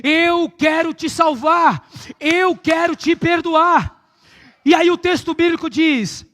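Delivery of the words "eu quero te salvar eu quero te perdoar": slow, shouted voice of God; slow shouted divine plea; God speaking. Acted. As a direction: proclaim it slowly as God's own plea. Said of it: "Deus está falando pra você".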